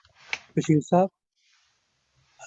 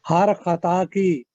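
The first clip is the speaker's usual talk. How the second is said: stately nazm recitation. Acted. Poet recites ghazal at mushaira.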